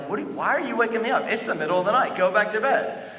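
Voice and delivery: put-on a startled old priest grumbling; annoyed Eli. Eli snapping at Samuel for waking him up. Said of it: "he's like".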